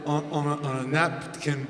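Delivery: soft, low, mumbly British voice; softly mumbled British accent impression; impression of a British singer. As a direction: murmur like a shy British rocker, low and soft. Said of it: "He's like".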